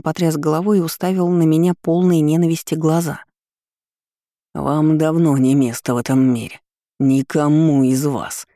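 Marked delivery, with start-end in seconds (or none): 4.5-8.5 hostile shout. Acted. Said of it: "От крика работника".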